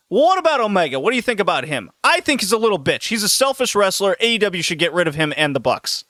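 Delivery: trash-talk a wrestler to a stranger; ranting fan. Retold or imitated. The speaker rants about Omega.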